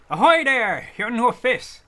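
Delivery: lightly voiced hearty trader, a loud ahoy; cheery merchant NPC. Merchant greeting a fisherman, hearty and cheery. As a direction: hail the fisherman like a jolly trader.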